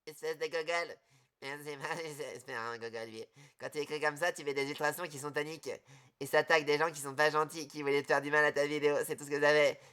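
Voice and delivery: very soft low murmur; quiet murmur. Real, not acted. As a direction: murmur it close to the mic. Very quiet muttered explanation.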